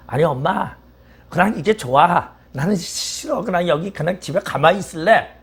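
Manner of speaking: put-on high, pleading child's whine; whiny baby eagle. Baby eagle pleading with its mother, high whine. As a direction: beg to stay in the nest like a little kid.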